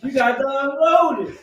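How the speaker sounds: words through a real laugh. Real, not acted. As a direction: laugh as you tell it. Laughing retelling hay bales.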